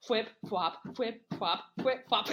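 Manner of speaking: imitated slapping footsteps, rhythmic; steady flapping onomatopoeia; flip-flop sounds. Killer resumes running in flip-flops, imitated steps. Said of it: "all you hear is".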